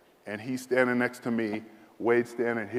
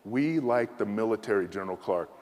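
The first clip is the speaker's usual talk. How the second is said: reassuring general; 2 semitones lower, 3 dB quieter than usual. Retold or imitated. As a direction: reassure him kindly as the general. General reassuring, arm around.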